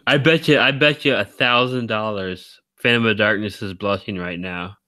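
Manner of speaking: ordinary delivery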